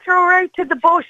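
slightly high mock-Aussie; Australian accent. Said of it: "what they say in Australia".

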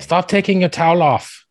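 hammed-up fake Asian accent, loud and high; badly faked Asian accent, played for laughs; terrible Asian accent.

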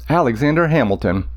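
"Alexander Hamilton" in a dactylic beat; metrical stress. Shown as a demonstration. Teacher showing how the name fits the meter. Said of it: "fits perfectly at the end of a line".

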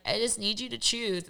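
a light imitation of Jessica pleading; lightly voiced Jessica, needy. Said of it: "That's my doing Jessica voice".

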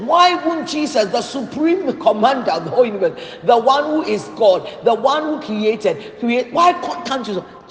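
mock outrage, climbing on the repeated questions; infuriated retelling. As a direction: act out a preacher's exasperated protest. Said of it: "He was, became infuriated".

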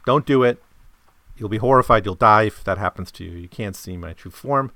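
loud, lightly acted warning; warning from the unmasked man. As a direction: push it out as a firm warning. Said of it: "And he says".

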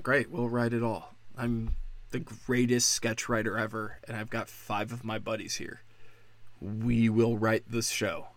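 soft, low-pitched imagined reply; low, cool dismissal. Retold or imitated. Dave to protesting writers at SNL, low, cool dismissal. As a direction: dismiss them quietly in a dropped voice.

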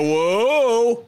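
put-on warning whoa to a baby. Shown as a demonstration. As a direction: stop a baby with your tone. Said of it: "If I go".

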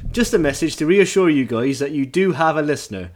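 light West Country reading voice; hint of a West Country burr; West Country accent. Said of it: "read out in a West Country accent".

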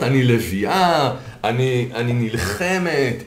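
slow, drawn-out boast of a self-styled lioness; lightly mocking a mother who brags she fights for her kids; proud lioness mother. Mother boasting to her friends, slow and mock-proud. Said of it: "היא גם תספר לחברות".

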